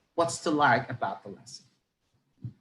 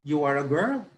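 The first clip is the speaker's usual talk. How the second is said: put-on "girl" swept up, then falling; question or statement tune; 2 semitones lower than usual. Shown as a demonstration. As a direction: lift "girl" and drop it. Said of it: "asking a question or stating a fact".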